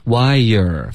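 Wire as one smooth wa-yer glide; teacher models the right sound; correct Wire. Shown as a demonstration. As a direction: blend Wire without a separate ye. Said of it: "发成哇也".

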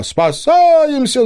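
very high, loud, drawn-out panicked yell; alarmed yell. A narrator's reading. Owl and fox yelling in panic before running off. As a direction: wail it out and flee. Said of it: "заголосили сова и лис".

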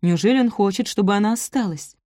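plain reading voice

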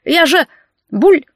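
high whine cut off by a gurgle; drowning man whining. Acted. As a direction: whimper then choke on water. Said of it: "заныл мужчина".

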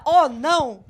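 high, loud imitation of a scream; mock dying cry. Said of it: "Você tá morrendo e grita". (grito debochado de quem morre)

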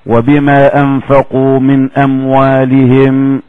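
slow, measured reciting of the verse; Quran recitation. Acted. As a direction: draw the verse out slowly like a reciter. (تلاوة قرآنية بطيئة)

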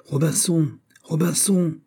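high, plaintive parrot call; strident, tearful parrot cry. A narrator's reading. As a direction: cry out shrilly like a distressed parrot. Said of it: "une voix stridente et pleurée".

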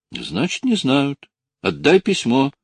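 high-pitched, agitated demand. A narrator's reading. Lucy demands her letter back, agitated. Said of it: "возбуждённо сказала она".

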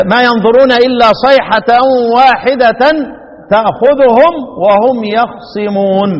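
slow Quran recitation, يخصمون with vowelless خ and single ص; Hamza's reading. Shown as a demonstration. Teacher reciting Hamza's reading for students, measured tajweed recitation. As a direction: recite it drawn out, saying yakh-simun for يخصمون. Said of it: "قراءة حمزة".

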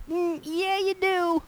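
high, soft knowing "yeah, you do"; high, soft sing-song tease; teasing. Retold or imitated. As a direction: gently catch him out. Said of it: "It's like".

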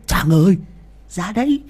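high, loud leering crazy voice with laughs; deranged flasher. Acted. Mad Trung calls out lewdly to village women, high and loud. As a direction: cackle and leer at the girls.

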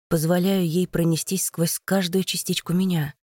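usual speaking voice

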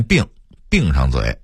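"闭"念成"病"; 北京腔说"病上嘴"; Beijing pronunciation. Shown as a demonstration. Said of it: "北京人却念病". (北京话变音念"病")

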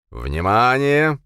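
slow, loud, drawn-out call; loud warning. A narrator's reading. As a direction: warn the crowd loudly. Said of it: "громко предупредил".

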